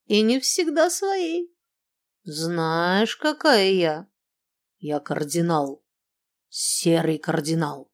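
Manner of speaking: put-on drunken giggly boasting; tipsy, giggling between words; drunk with hiccups. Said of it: "пьяно хихикая, добавляла".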